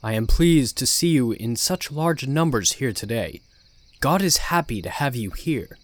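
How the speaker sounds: firm, fatherly preacher voice; authoritative yet kind. Acted. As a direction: address the flock warmly but firmly. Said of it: "speaking with an authoritative, yet kind tone".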